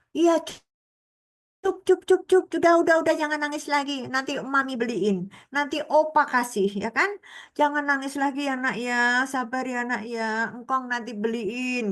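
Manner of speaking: soothing, coaxing, calming tone. Showing how a parent coaxes a crying child: imitating soothing a crying child. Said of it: "ini nadanya sama seperti kalau kita memperlakukan kepada anak kita".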